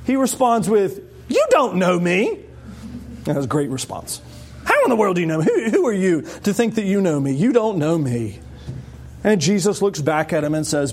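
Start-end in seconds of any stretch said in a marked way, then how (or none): 1.3-8.4 a touch of gruff suspicion. Retold or imitated. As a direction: push back, mildly curt. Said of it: "he's a bit gruff".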